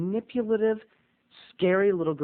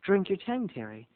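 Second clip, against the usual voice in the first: put-on creepy soft girl; 7 dB quieter than usual. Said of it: "Mona had the courage".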